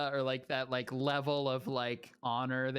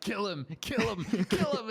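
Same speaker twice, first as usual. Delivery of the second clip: chat egging on; 6 semitones higher, 3 dB louder than usual. Retold or imitated. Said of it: "They're like".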